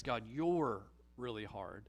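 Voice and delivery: low, sour complaint against God; accusing grumble. Pretend. Grumbler accusing God in a sour mutter. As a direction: blame God under your breath. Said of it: "But a grumble says".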